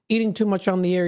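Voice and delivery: chewing while talking; smacking lips; mouth full. Real, not acted. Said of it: "You're hearing my smacking".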